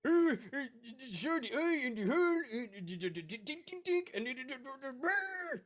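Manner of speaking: high-voiced, sputtering fright; hammed-up frightened babble; rattled stammering. Frightened Seahawk explains what he saw.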